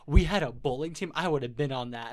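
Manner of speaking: loud retold outburst; imitated excited girl. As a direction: blurt it out, imitating her eagerness. Retelling excited girl at internship.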